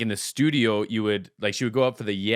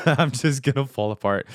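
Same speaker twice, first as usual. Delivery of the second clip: laughing; 3 semitones higher than usual. Real, not acted. Vlogger repeats his line laughing at being emotional.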